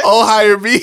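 high, loud hammed-up yell; mock ecstatic cry. Co-host riffing on the atheist sex joke, high mock yell. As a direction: cry it out in fake passion.

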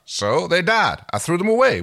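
high, loud indignant protest; defensive. Acted. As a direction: push back, offended. Crichton defending himself to crew.

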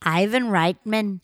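rough attempt at an Austrian accent; Schwarzenegger. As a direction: try a muddled Austrian accent on the name. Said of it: "trying to say it the way Schwarzenegger does it".

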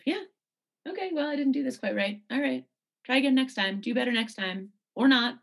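quick, breezy shrug-it-off inner voice; casual can-do pep talk to oneself; breezy self-talk. Pretend. Imagined easygoing self-talk.

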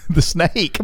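giggly whispered aside. Real, not acted. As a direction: breathe the words through a giggle.

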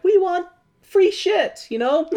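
high giggling whine; laughing. Retold or imitated. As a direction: laugh while begging. Friends whining, laughing.

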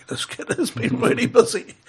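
amused emphasis. Real, not acted. Telling the host about the boy's record, amused and laughing. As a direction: chuckle and stretch "has been" like it's a wry joke.

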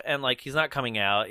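ordinary delivery

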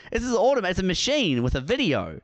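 what are you even talking about; indignant outburst. Pretend. ATM worker protesting he is inside, high indignant outburst.

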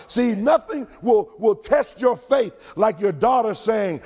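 ordinary talk

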